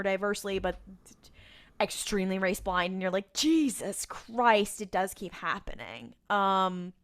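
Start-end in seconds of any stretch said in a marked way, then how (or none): 3.3-6.1 drawn-out, weary exasperation; exasperated. Acted. Podcast host reacting to yet another bad casting, exasperated.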